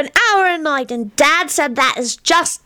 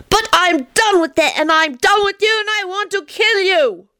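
put-on high, upset child telling off his friend; childish anger; 10 semitones higher than usual. Teddy breaking with Tony, high and upset. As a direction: blurt it out, hurt and cross.

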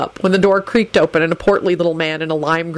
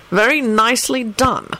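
higher-pitched, approving praise; pleased; 6 semitones higher than usual. A narrator's reading. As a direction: praise him with obvious pleasure. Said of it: "in a pleased voice".

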